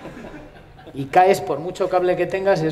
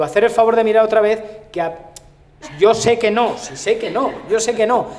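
high, loud, insistent plea; exasperated pleading; 6 semitones higher, 5 dB louder than usual. Acted. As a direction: beg the crew, voice raised. Acted exasperated plea to crew. (súplica exasperada a voces)

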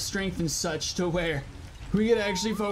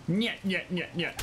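sing-song taunting; 3 dB quieter than usual. Acted. Taunting weak creature.

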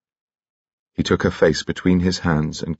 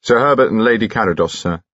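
loud, higher announcing call; formal announcement; 5 semitones higher, 4 dB louder than usual. Acted. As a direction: announce the guests at the door. Servant announces guests.

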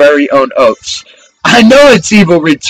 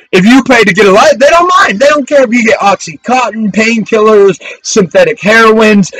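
preaching shout; 3 semitones higher than usual. Real, not acted. Preacher railing against drug laws.

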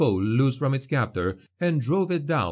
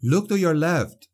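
high, loud battle warning; shouted warning; 6 semitones higher, 4 dB louder than usual. A narrator's reading. Felix warning Heinz mid-fight, loud shout. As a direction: call it over the fight. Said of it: "Felix Jäger shouted".

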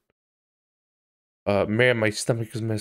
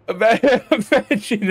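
laughing; 9 semitones higher, 7 dB louder than usual. Real, not acted. Laughing through the line.

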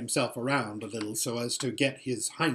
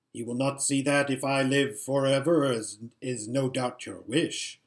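drier voice. Acted. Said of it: "in a drier voice than usual".

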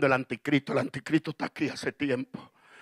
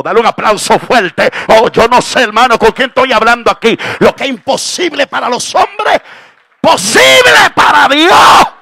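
rousing preacher, louder and higher to the end; full-force preaching; 9 semitones higher, 21 dB louder than usual. Real, not acted. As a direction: build to a roaring pulpit climax.

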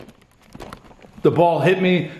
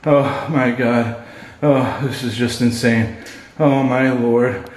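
scared; 4 semitones lower, slower than usual. Real, not acted. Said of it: "I am so scared".

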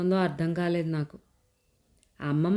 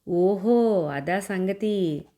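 put-on a child's slow "oh, so that's it"; dawning surprise; 2 semitones higher, much slower than usual. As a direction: let it dawn on her slowly. Child grasps the explanation.

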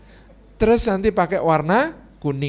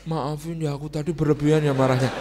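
apologetic wife; 4 semitones lower than usual. Acted. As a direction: come down gently and apologise. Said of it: "selesai dia marah".

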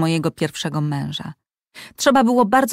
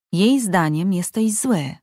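slow and calm; slower than usual. Acted. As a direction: say it gently and slowly to soothe. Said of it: "powiedziała Liv spokojnie". (spokojnie i powoli, łagodnie)

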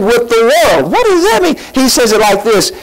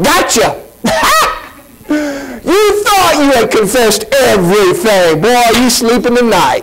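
mock gotcha God; 2 semitones higher than usual. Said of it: "God's not in heaven going".

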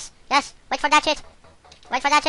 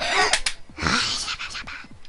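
high wordless babbling groan; frustrated noise; 6 semitones higher, 4 dB quieter than usual. Real, not acted. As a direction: let out a gibbering noise of frustration. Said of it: "Sorry for making this noise".

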